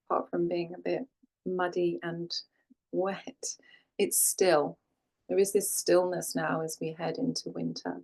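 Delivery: calm, unhurried settling-in voice with long pauses; guided meditation. Real, not acted. Yoga teacher guiding class to land and breathe, calm meditation voice. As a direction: ease the listener gently into stillness, leaving space between phrases.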